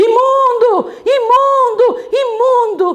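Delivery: shrill, very high, loud, repeated shout. Retelling how a leper on the road cried out: imitating someone shouting. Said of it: "ela ouve alguém gritando assim".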